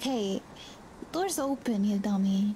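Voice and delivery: ordinary talk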